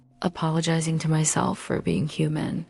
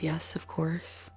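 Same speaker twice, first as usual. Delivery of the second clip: small quiet yes; 8 dB quieter, slower than usual. Retold or imitated. Giving in to partner on phone.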